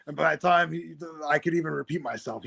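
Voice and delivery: ordinary talk, nothing marked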